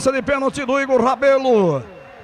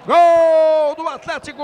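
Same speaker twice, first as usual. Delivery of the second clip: goal call; 3 dB louder, slower than usual. Real, not acted. Penalty scored, live call.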